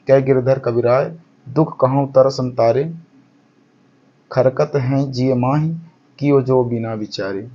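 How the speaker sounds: slow, measured recital of the verse; poem recitation. Acted. Teacher reciting Giridhar's kundaliya slowly to the class.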